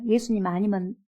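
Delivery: normal talking voice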